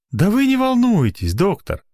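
high-pitched soothing nurse; sympathetic. A narrator's reading. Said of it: "сочувственно произнесла Марья Ивановна".

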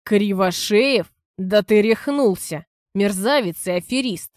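slow, outraged and loud; indignant, hammering each word; angry outburst. Acted. Father furious at son's plan. (возмущённый гневный крик)

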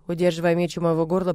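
ordinary delivery, nothing marked

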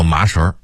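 麻绳儿 with curled 儿 ending; 绳 curled into shéngr; Beijing r-curl. Shown as a demonstration. 北京人说麻绳儿. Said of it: "北京人说麻绳儿".

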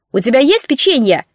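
hungry raccoon voice. Acted. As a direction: ask like a greedy little beast. Енот спрашивает голосом-существом.

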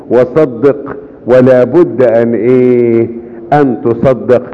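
drawn out, inviting them to answer; slow call to the congregation. Acted. Preacher coaxing the congregation to finish the verse, slow and drawn. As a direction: stretch it out and wait for the crowd.

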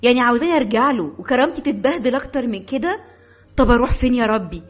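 shocked daughter. Acted. Daughter protests in shock to her mother, high and fast. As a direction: protest in disbelief. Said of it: "نظرت لها بذهول".

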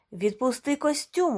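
high, loud clarifying yell; corrective shout. A narrator's reading. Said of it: "уточнив Гомес".

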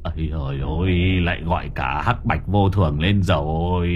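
a frightened house god stammers about the death spirits; stammering in fear. Acted. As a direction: sputter it out, scared. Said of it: "lắp bắp".

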